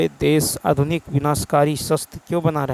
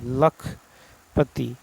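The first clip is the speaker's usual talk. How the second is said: spelled out slowly; 2 semitones lower, much slower than usual. Shown as a demonstration. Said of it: "सही वर्तनी वाला शब्द".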